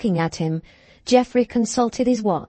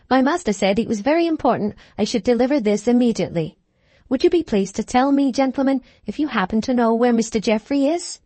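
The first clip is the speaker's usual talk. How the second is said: higher, brisk servant voice; deferential groom; 4 semitones higher than usual. Acted. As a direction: report respectfully as a groom, pitched up. Groom asks politely for help.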